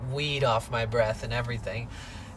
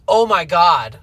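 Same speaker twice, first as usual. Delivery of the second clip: alarmed gasp; 3 semitones higher, 10 dB louder than usual. Retold or imitated. Assistant reacts to broken drill.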